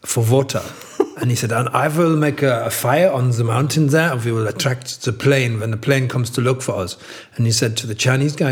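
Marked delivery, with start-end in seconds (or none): 0.0-0.6 light mock-German accent on two words. German survivor sending Englishman for water, light German accent. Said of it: "that's my German accent". 1.5-7.0 put-on German accent, mildly done. German survivor explaining his fire plan, light German accent. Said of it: "that's my German accent".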